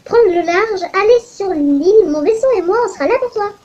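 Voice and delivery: put-on captain inviting the player, Russian accent. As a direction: offer the trip in a Russian accent. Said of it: "pourquoi je fais un accent russe?".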